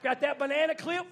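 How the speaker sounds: laughing, loud and high. Real, not acted. Preacher teasing moms with small kids, laughing loud. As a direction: crack up at your own joke. Joking about mothers' hair.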